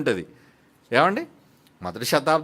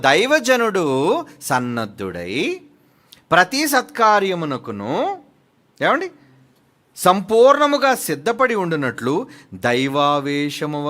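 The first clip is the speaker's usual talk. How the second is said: slow, solemn, deliberate reading; scripture reading; 5 dB louder, much slower than usual. Acted. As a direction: read each phrase weightily to the congregation. Reads scripture. (నెమ్మదిగా, గంభీరంగా వాక్యం చదువుతూ)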